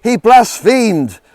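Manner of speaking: slow, high, loud outraged shout; furious yell. Acted. Chief priest to the council, furious high yell. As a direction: roar it out in outrage. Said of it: "he yelled".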